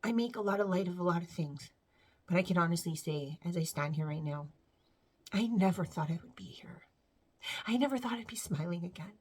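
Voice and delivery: soft, low, close to tears; real tearing up. Real, not acted. Speaker admitting she never thought she'd be here, tearful. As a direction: hold back tears, voice dropping almost to a whisper. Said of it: "I'm sorry I'm tearing up".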